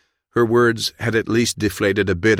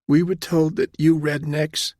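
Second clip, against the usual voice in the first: high, fearful woman's voice; hesitant confession to a captor; timid, upset junior officer, pitched high; tearful young captain; 10 semitones higher than usual. A narrator's reading. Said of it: "her shoulders began to shake again".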